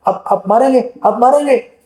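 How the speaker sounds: a touch of weepy pleading, pitch lifting on मारेंगे; half-hearted imitation of a child crying; mild crying plea. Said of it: "Arjun सिर से रो रो के बोल रहा है". (हल्का सा रोते हुए बोलना)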